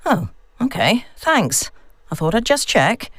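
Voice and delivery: a daughter trying to sound normal; nervous daughter on phone. Acted. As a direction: sound uneasy but casual to your mum. Vicky phones her mum.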